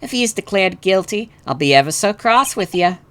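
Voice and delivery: sweetly threatening southern wife; southern belle with veiled menace; southern accent. Acted. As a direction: warn him in a polite southern lilt. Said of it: "a southern accent for her".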